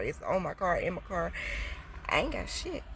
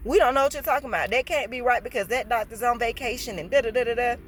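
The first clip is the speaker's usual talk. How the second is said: fast, louder, dismissive mimicry of "We don't know what you're talking about"; mocking staff excuse; 3 semitones higher, 6 dB louder than usual. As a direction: rattle off their excuse with contempt.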